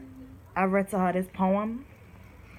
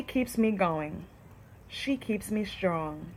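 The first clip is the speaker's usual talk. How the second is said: poem reading. Shown as a demonstration. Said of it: "I'm gonna read it to you".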